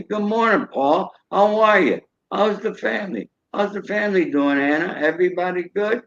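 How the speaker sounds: high-pitched, chatty hello to familiar faces; friendly greeting. Acted. Shopper greeting grocery clerks by name, friendly and high. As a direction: greet them by name, voice lifted.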